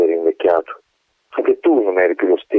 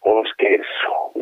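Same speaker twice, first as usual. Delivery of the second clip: crushed repetition; 2 semitones higher, 3 dB quieter, slower than usual. Acted. Colonel repeats, crushed.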